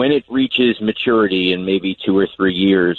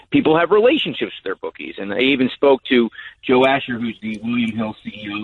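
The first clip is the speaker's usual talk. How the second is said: voice fading on phone. Real, not acted. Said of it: "your voice is fading a little bit".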